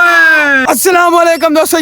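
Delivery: shouted hello to the viewers; excited greeting. Real, not acted. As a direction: call out the welcome with energy.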